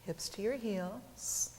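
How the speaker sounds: calm teacher cueing movement with the breath; unhurried cues, pauses left for each breath; guided yoga practice. Acted.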